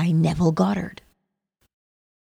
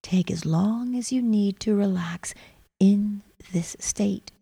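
whispering; 6 dB quieter than usual. Acted. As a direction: breathe the words out gently. Deepening the meditation.

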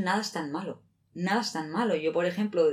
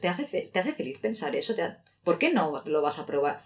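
angel voice. Pretend. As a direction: gently encourage like a shoulder angel. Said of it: "tienes el angelito y el demonio".

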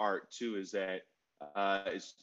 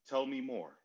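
calm invitation. Shown as a demonstration. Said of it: "all you have to do is say".

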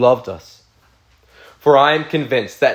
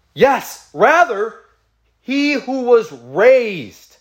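raised, fervent reading of Romans; preaching scripture reading; 6 semitones higher than usual. Acted. Pastor reading Romans aloud to his congregation, fervent and raised. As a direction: proclaim the passage to the church with rising conviction.

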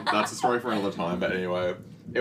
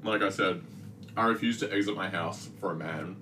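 talking through a mouthful; chewing while talking. Real, not acted. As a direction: mouth full of food. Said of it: "Sorry, I'm chewing again".

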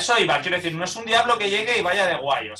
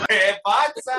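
loud, higher hammed-up greeting; cheery Pontius Pilate; 4 semitones higher, 4 dB louder, much slower than usual. Pontius Pilate introduces himself loudly in a film cameo. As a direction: announce yourself like a jolly Roman ham. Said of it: "Poncio Pilato siempre pasaba aunque fuera a saludar".

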